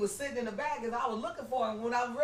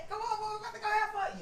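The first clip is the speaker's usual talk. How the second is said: laughing coax; 10 semitones higher, 3 dB quieter than usual. Retold or imitated. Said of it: "I'm doing all the joking I can".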